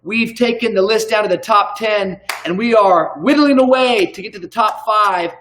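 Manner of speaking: playful emcee hype, building to the name; announcer introduction. Pretend. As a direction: introduce him like a ring announcer. Announces guest like an MC.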